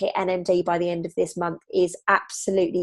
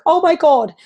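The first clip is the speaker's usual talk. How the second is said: high panicked gasp of oh my God; mock panic; 9 semitones higher, 6 dB louder than usual. Coach acting out the panicked morning thought, high and loud. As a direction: act out waking up in a panic.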